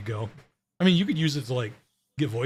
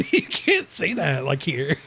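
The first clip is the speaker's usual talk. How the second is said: drawn-out, laughing mock British; British accent; slower than usual. Shown as a demonstration. American echoing a friend in swapped accents, mock British accent. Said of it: "you can become British".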